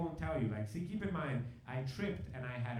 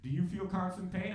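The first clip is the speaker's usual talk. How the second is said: rattled-off interrogation, slightly raised pitch; bombarding with questions. Retold or imitated. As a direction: fire questions one after another, imitating a dispatcher. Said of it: "He starts bombarding me with questions".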